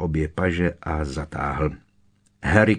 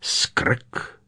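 higher-pitched puzzled question; breathy, raised note of surprise; surprised; 6 semitones higher than usual. A narrator's reading. Moody echoes the name he has just heard, surprised. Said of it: "podivil se".

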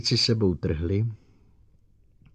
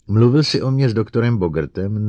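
loud demand; 3 semitones higher, 8 dB louder than usual. Acted. Director interrogates robot.

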